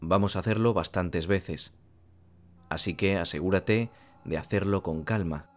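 calm, measured meditation instructions with long pauses; unhurried meditation guide, phrase by phrase; guided meditation. Real, not acted. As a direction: guide the listener gently, leaving space between phrases.

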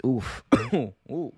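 ordinary talk

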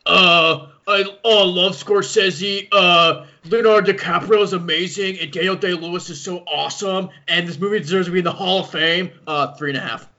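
a light mock of a friend's gushing review; impression of Chris. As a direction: gush like your buddy, lightly voiced. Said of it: "Here's my impression of Chris".

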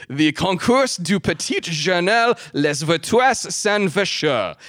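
lightly put-on French accent. Host reads the contest's French name, showy French accent. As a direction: read the French title with Gallic flourish. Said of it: "my accent too soon".

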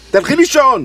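insist, putting your foot down; firm order. Acted.

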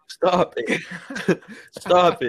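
giggling through the words; laughing. Real, not acted. Friend teasing a friend, laughing.

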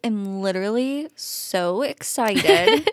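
lightly drawn-out celebrity drawl; slow, drawling excitement; Kourtney Kardashian. Real, not acted. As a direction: stretch the words out slowly, gushing. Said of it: "I sound like Kourtney Kardashian".

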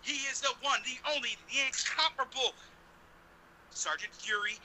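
loud hype-man introduction; big ring announcer build-up; ringmaster. Pretend. Hyping co-host introduction.

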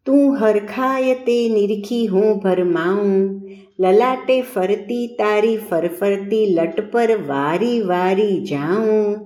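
slow, drawn-out verse recital; poem recitation. A narrator's reading. Tutor reciting his own verse to the maid, slow poetic delivery. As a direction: savour every word of the poem, stretching it out. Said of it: "તેમણે પોતાની રચના સુવિદિત કરી".

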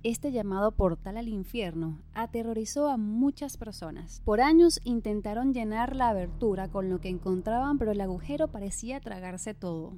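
steady, projected voice-over for a paranormal countdown; scripted documentary narration. A narrator's reading. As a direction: narrate an eerie top-list like a rehearsed script. (narración de documental de misterio, leída y proyectada)

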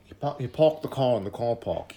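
a rough stab at a South African accent. Shown as a demonstration. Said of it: "I was trying to do my South African accent".

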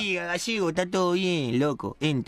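lightly put-on street guy voice; a joker slurring like a rough neighborhood guy; a hint of a cheeky porteño character; comic character voice. Comic character mangling "enter.

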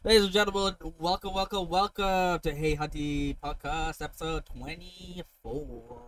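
showy host welcome, drawn out; campy drag queen. Acted. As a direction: announce it like a camp emcee. Host announcing the show.

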